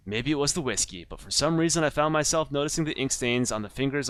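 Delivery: lightly southern noir narration; southern accent. Acted. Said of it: "now I'm going, like, southern".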